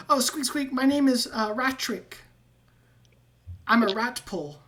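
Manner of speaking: high, squeaky rat voice with squeaks; squeaky rat man. Acted. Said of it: "And he goes".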